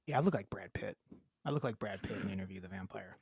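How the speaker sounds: talking around fake fangs; lisping through fake teeth. Real, not acted. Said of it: "why are you talking so weird".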